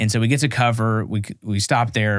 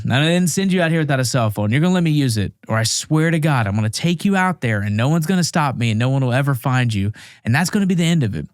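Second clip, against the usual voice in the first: retold threat; 3 semitones higher than usual.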